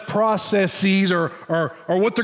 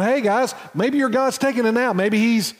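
light mock-helpful taunt, pitched up a little; 3 semitones higher than usual. Elijah taunting the prophets of Baal at noon, lightly mocking. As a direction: needle them with casual suggestions, voice lifted. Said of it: "Elijah's kind of mocking them".

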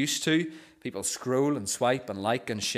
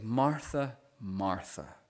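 tender; 4 dB quieter, much slower than usual. Retold or imitated. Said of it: "really tenderly".

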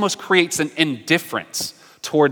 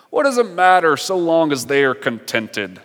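grandfather God voice. Acted. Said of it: "That was my grandfather God voice".

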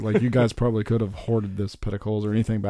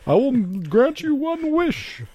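high, slow genie voice; booming genie granting a wish; grandly granting a wish; 4 dB louder, slower than usual. Pretend. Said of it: "Sam Adams should come out and be like".

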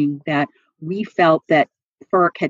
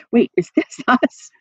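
surprised; 6 semitones higher than usual. Retold or imitated. Retold confused reaction at the hearing.

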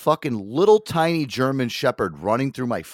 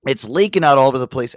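usual speaking voice

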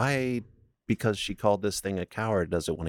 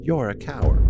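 taunting shout; 5 semitones higher, 7 dB louder than usual. Retold or imitated. Taunting the spirit.

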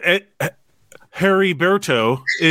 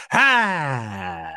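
deflated heckler; 4 semitones lower, 4 dB quieter than usual. Retold or imitated. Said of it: "then they're like".

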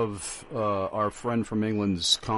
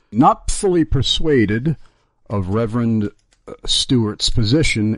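loud, deliberate reading of a letter; projected read-aloud of a written comment; 6 dB louder than usual. Acted. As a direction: read it out firmly and loudly to the audience. Reads the listener's email aloud.

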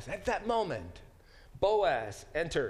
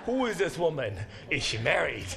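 laughing through the question; a wry chuckle as he asks; amused paraphrase. Retold or imitated. Preacher joking about Boaz, laughing as he asks. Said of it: "Fast mover".

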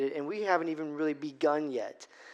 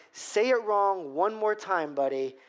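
mock threat; 2 semitones higher than usual. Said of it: "at this point, I'm like".

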